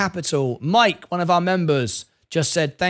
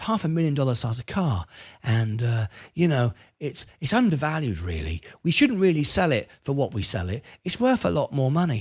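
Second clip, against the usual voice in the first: very soft-spoken, hushed, low voice; 4 semitones lower, 4 dB quieter than usual. Quoting a man talking about a half-million-dollar car, imitating a really soft voice. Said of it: "he sits there in that really soft voice".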